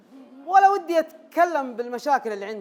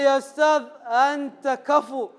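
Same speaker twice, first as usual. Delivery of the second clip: formal Arabic. Retold or imitated. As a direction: pronounce it grandly in classical Arabic. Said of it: "قالها لي بالنحوي".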